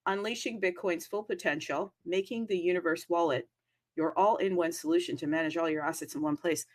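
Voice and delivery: ad read. Acted. Reads sponsor ad copy.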